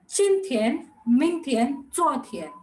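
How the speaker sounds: Chin Tian, Ming Tian, Zuo Tian rattled off fast; said quickly. Shown as a demonstration. Teacher showing the quick way to say them, fast. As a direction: run the three words together quickly. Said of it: "really quickly go and say it".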